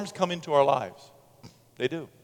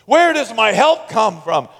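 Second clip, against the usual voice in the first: psalmist's self-talk; 3 semitones higher, 5 dB louder than usual. Acted. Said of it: "Self-talk".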